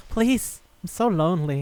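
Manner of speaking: high-pitched needy begging, easing down; hammed-up plea; mock pleading. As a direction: imitate a lonely soul begging. Lonely demon begs the kid.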